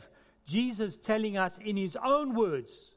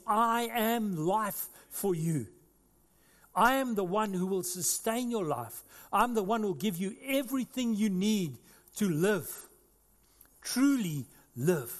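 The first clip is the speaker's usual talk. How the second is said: Jesus promising; 3 semitones higher than usual. Acted. Preacher voicing Jesus to listeners, earnest. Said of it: "the point he's making is".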